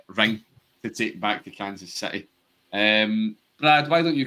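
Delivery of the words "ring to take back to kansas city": jaw clenched, grudging; gritted teeth. Retold or imitated. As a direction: push it out through tight teeth. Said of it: "he says through gritted teeth".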